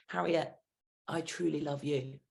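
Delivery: a tender, earnest declaration to Harriet; sincere love. Retold or imitated. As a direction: say it quietly and mean it. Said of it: "one day in time that becomes".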